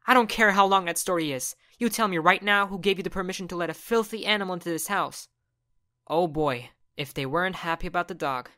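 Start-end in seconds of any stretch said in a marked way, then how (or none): 0.1-5.3 angry mom. Acted. Mom scolds son.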